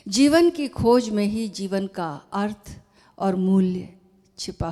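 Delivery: measured, emphatic reading aloud; formal letter reading. Acted. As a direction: read it out deliberately, pausing between phrases. Reads Osho's letter aloud. (पत्र का ज़ोरदार, सधा हुआ पाठ)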